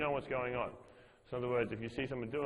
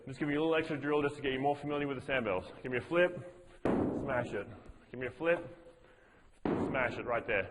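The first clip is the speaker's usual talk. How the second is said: coaching cue. Shown as a demonstration. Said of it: "I'll just say".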